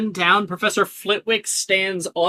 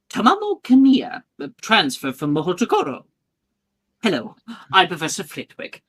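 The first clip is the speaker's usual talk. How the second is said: tiny voice. Acted. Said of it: "You hear a tiny voice".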